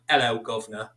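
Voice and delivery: half-hearted Cockney greeting; attempted Cockney. Shown as a demonstration. Guest explains he lacks the London accent, attempted Cockney. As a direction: have a modest go at Cockney. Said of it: "I can't do it true".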